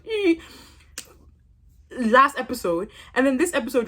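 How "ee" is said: mock grin noise. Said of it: "Your whole mouth was".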